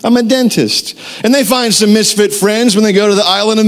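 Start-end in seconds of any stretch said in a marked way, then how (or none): 0.0-1.0 high-pitched cartoon elf voice; little poser dentist. Mimicking the movie's dentist elf, high put-on voice. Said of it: "his little poser dentist friend".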